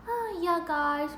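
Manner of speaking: slow and hushed, gentle and soft-spoken; mock soft-spoken reply to viewers. Shown as a demonstration. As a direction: ease it out softly and slowly. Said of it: "jadi soft spoken".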